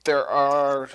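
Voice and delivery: ordinary talk, nothing marked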